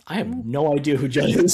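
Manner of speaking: imitating an emphatic profession of ignorance; retold emphatic denial. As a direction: deliver it loud as a punchline. Acts out Will's blank reply, comically.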